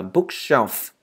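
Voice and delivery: "bookshelf" ending on an audible f; careful teacher's "bookshelf", f released; clear final F. Shown as a demonstration. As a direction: model "bookshelf" without dropping the f. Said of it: "Các bạn đừng quên chữ F ở cuối nha".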